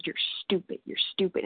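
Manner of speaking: breathy whisper of a cruel inner voice; whispered taunt. Retold or imitated. She whispers the voice of her disease to the group. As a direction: hiss it like a voice inside your head. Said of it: "and it said".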